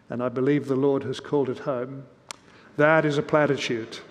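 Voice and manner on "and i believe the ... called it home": pious voice. Retold or imitated. Small boy to the pastor, a lightly mock-pious tone. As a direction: lightly put on solemn churchy tone. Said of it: "he says in a very pious voice".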